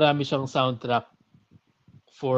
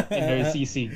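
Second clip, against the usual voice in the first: laughing; 10 semitones higher, 4 dB louder than usual. Real, not acted. Teasing joke among friends.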